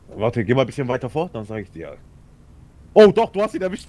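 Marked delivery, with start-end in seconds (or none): 2.9-3.9 louder, higher, laughing through the words. Real, not acted. Laughing as he tells his friend he scored the hit. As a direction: burst out laughing as you say it.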